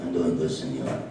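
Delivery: low Mexican puppet voice; deep talking burrito. Acted. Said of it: "I'm trying to do a little ventriloquism here".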